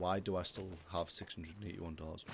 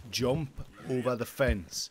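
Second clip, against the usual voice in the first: urging shout; 3 semitones higher, 6 dB louder, slower than usual. Real, not acted. Urging horse over fence.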